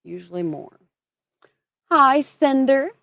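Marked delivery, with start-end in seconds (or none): 1.9-2.9 high, slow, cutesy hello; sing-song greeting. Real, not acted. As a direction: coo the name up high like greeting a pet. Greeting a viewer in chat.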